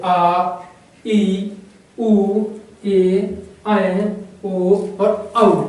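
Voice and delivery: loud, drawn-out आ, ई, ए, ओ; stretched, emphatic आ, ई, ए, ओ, और औ; long vowels. Shown as a demonstration. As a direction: hold each vowel from आ to औ firmly. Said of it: "कहने पर हमें अधिक समय लगता है".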